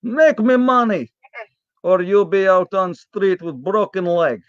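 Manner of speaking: lightly put-on Polish restaurant owner; mock Polish accent. Restaurant owner scolds the sick guest, mild Polish accent. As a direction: play the gruff owner with a hint of Polish accent. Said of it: "You sound just like Olaf".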